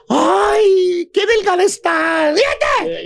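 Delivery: sugary fake compliment with a laugh; mock catty sister-in-law. Sister-in-law greets the wife with a catty fake compliment. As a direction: needle her with a sweet voice. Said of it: "remata diciéndote".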